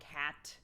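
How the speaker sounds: "hat" with an h in place of the c of cat; toddler mispronunciation. Retold or imitated. Showing how the baby's cat sounds, "hat" as toddler mispronunciation. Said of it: "It can sound like".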